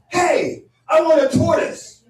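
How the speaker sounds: high, loud mock-eager voice; eager friend. Friend announcing wish for a cockatoo, mock-eager. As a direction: announce it with hammed-up enthusiasm.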